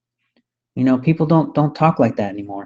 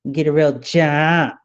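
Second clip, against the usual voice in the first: slow mocking repeat; slower than usual. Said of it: "whining because they lost an election".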